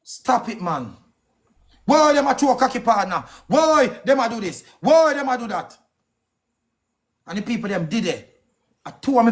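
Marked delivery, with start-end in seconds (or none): 1.9-5.8 higher, heated repeated whys; indignant questions. Real, not acted. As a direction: demand an answer, each why hit hard. Angry rant, repeated questions.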